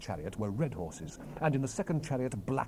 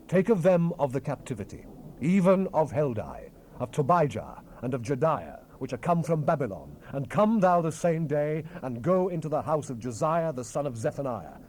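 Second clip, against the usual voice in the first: louder, raised declamation; forceful command; 4 semitones higher, 7 dB louder than usual. Acted. The Lord commands the prophet to take the captives, forcefully. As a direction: charge him with the task firmly.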